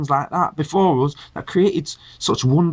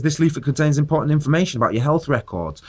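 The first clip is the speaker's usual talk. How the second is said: reading the leaflet. Retold or imitated. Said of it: "when it says".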